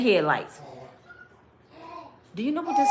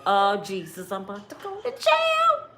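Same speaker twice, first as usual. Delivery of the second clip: mock panic. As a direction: squeal it like you just realised you're in trouble. Panic at seeing the affair.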